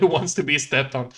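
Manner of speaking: ordinary delivery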